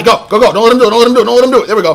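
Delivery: high, loud, urgent yelling at the screen; excited shouting. Real, not acted. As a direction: yell at the game to stop it. Tense moment in boss fight.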